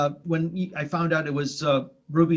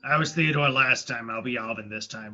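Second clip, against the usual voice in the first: low slowed chipmunk voice; 5 semitones lower than usual. Pretend.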